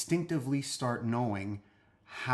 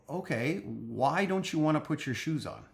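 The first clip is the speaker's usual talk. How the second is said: calm parent; 3 semitones higher than usual. Shown as a demonstration. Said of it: "you gotta go".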